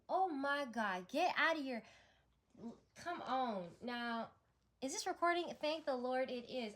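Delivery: loud, high burst of real excitement; a real loud gasp of joy at the cards; excited outburst. Real, not acted. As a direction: shout it out, thrilled and amazed. Sudden excited outburst at a reading.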